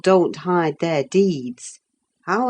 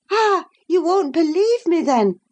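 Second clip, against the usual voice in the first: higher voice, disdainful and incredulous; a proud lady scolding a foolish girl; scornful young lady; 12 semitones higher than usual. Acted. Catherine lecturing Isabella, higher and disdainful.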